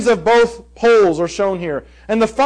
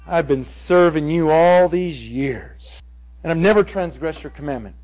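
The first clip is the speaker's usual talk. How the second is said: resentful son; 5 semitones lower than usual. Retold or imitated. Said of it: "this was his I wish you were dead statement".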